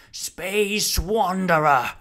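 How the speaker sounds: slow, drawn-out summons over a crowd; calling out. Acted. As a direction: hail him from a treetop. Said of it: "called Rumford".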